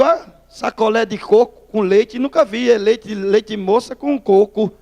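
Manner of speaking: slow, savouring mock admiration; imitating a sly tease; teasing temptation. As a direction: draw out each treat to tempt him. Tempting rival with an ice pop.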